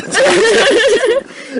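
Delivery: high bursting laugh; loud laugh. Real, not acted. Laughs at own modesty.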